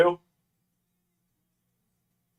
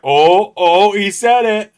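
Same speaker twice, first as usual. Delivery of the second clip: high mocking gotcha voice, louder; mock gasp; 9 semitones higher, 11 dB louder, slower than usual. Everyone teasing the host for swearing, high mocking gasp. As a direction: gasp it out like catching someone swearing. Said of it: "everyone's like".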